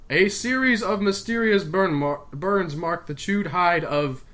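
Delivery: put-on English accent, carefully restarted; fake English accent. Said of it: "back to my fake English accent".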